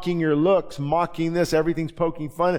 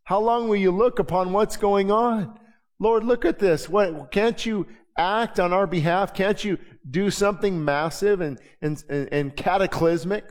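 pleading prayer; 3 semitones higher than usual. Pretend. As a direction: cry out to the Lord, pressing him. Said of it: "I'm saying it right now".

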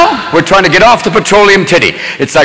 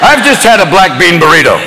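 mock car ad. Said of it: "Here's the ad".

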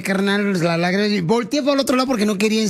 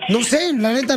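higher, slower words through a real laugh; 5 semitones higher than usual. Real, not acted. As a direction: laugh off the awkward question. Laughs at awkward question about kids.

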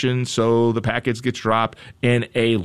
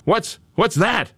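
higher, wide-eyed wonder at something shiny; mock surprise; 6 semitones higher than usual. Host acting out the jackhammer worker spotting gold, higher surprised.

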